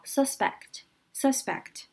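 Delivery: suspect with the stress on the first syllable, SUS-pect, slowly; slow demo of the adjective suspect, stressing SUS; stress on the start. Shown as a demonstration. Teacher showing the adjective stress, slow and careful. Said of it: "重音跟它做名词的时候一样".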